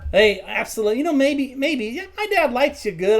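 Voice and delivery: put-on obliging shop boy. Boy tells customer dad likes him, obliging. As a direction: waver upward as you give in.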